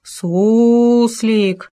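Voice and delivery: loud, drawn-out spooky call; nasty ghostly call. A narrator's reading. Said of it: "противно позвал за входом".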